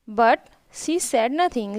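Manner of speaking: slow, careful read of each English word; slow reading aloud. Shown as a demonstration. Teacher reading the English story line to her pupils, slow and careful. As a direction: read it out slowly for the class.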